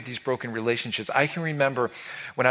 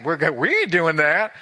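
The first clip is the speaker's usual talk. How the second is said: friends refusing; 4 semitones higher, 4 dB louder than usual. Retold or imitated. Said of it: "They got".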